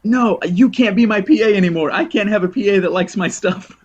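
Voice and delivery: high, loud mock-outraged squeal; laughing mock outrage at a fan assistant. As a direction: play at being shocked and firing him. Elise mock-firing her fan PA.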